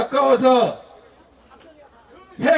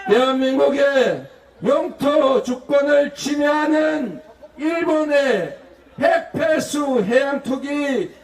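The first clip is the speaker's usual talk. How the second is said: slogan shout. Shown as a demonstration. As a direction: bellow it like a crowd demand. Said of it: "대통령이라면 당연히 이렇게 말해야 합니다". (구호를 외치듯 힘차게)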